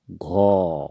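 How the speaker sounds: घो said with a breathy gh and a rounded o; घो as Assamese gho, not Hindi gha; Assamese letter gho. Shown as a demonstration. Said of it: "घ को हम असमिया में पढ़ेंगे". (असमिया उच्चारण में घो)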